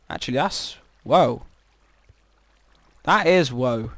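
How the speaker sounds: ordinary delivery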